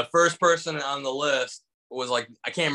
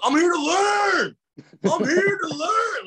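high, loud, slow eager shout; way louder than anybody; 4 dB louder, slower than usual. Retold or imitated. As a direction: yell it out over the whole room. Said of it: "way louder than anybody".

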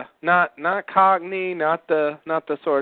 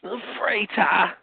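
put-on Aussie accent; 3 semitones higher, slower than usual. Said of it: "That's Aussie English".

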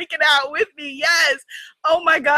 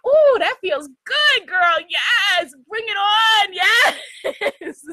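sassy frog voice; 5 semitones higher, much slower than usual. Retold or imitated. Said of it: "the frog is looking like".

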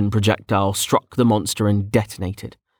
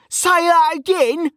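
high, loud, slow challenge; angry shout; 5 dB louder, slower than usual. A narrator's reading. Mage rounding on his rival with fists up, angry shout. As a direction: dare him in a high yell. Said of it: "Kettle shouted".

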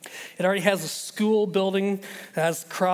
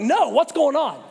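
urgent demand; 8 semitones higher, 6 dB louder, slower than usual. Retold or imitated. Demanding to know phone news.

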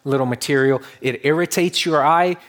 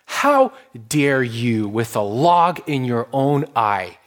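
mild righteous anger; slower than usual. Retold or imitated. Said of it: "this righteous anger in Jesus".

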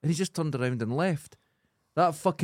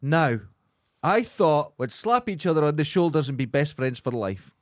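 normal talking voice

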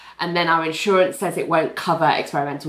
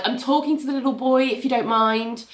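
bored voice; 5 semitones higher than usual. Retold or imitated. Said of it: "in a bored voice".

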